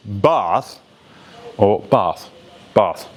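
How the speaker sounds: "bath" with an exaggerated long, back "ah"; heightened RP bath. Shown as a demonstration. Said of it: "you can heighten that".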